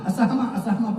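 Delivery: "اسحمہ" as people misread it, vowel after s; the common slip "asahma" for "اسحمہ"; mispronounced Asahma. Shown as a demonstration. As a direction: repeat "اسحمہ" wrongly as a-sah-ma. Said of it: "پڑھتے ہیں".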